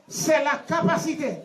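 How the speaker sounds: measured phrase for a group to echo; feed the line to a class to repeat; teacher leading a recitation; repeat-after-me delivery. Shown as a demonstration. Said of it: "répétez après".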